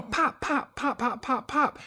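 high, light popping noises; imitated little snaps. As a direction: imitate small explosive squibs going off. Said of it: "it's little snaps".

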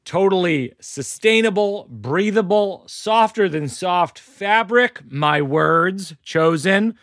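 a light sponsor read in his own voice. Acted. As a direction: tick through the product perks like a host's ad. Host reads the sponsor ad.

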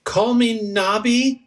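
high, slow, drawn-out mobster voice; slow mobster swagger, pitched high; mobster-like goblin. Acted. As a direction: goblin introducing himself like a mobster. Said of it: "you sound like a, like a mobster".

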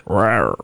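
lightly growled dinosaur rawr; a quick mock roar, low. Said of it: "I'm a dinosaur".

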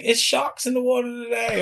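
high, sing-out alarm; mock shark warning. Retold teasing warning about sharks.

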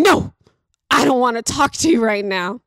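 imitated child's dramatic outburst; drama queen child. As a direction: burst out like a tantruming six-year-old. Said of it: "the Drama Queen Award goes to".

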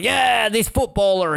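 high, slow, drawn-out mock cheer; hammed-up crowd hurrah. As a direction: cheer each name like a bored crowd. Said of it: "And everyone's like".

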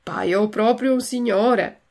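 slow, drawn-out self-satisfaction; a touch of slow swagger; strutting pride. Acted. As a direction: show yourself off with mild pride.

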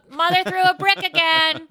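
high, loud laughing line; laughing through a joke. Real, not acted. Joke about mom's brick.

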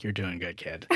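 very soft, knowing aside; conspiratorial wink. Retold or imitated. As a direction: whisper it with a wink. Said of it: "it was sort of with, like, a wink".

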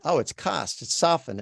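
"cost" and "soften" with an open ah; mistaken vowel demo. Shown as a demonstration. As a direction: say "cost" and "soften" as "cahst" and "sahften". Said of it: "no, it's not".

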